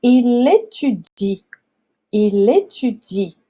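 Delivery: slow "Il étudie", stopping on the I; silent final E. Shown as a demonstration. Teacher demonstrates the verb for students, slow, silent final E. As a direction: model "Il étudie" slowly with the final E unspoken. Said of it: "a gente para no I".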